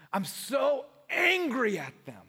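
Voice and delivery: half-shouted mock grievance; mock angry outburst. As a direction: act out the listener's upset protest. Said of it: "And you're like".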